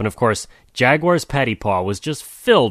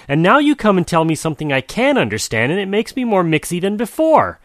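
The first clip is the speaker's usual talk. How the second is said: higher, flustered jaguar voice; rising muddled rant; 5 semitones higher, 4 dB louder than usual. Acted. Jaguar ranting, confused.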